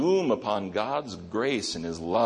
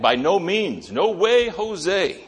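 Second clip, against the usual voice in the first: much higher and louder exclamation; emphatic; 10 semitones higher, 7 dB louder, slower than usual. Retold or imitated. Paul flatly refusing the idea of going back, emphatic and loud. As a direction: burst out with it, emphatic. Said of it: "He says with an emphatic".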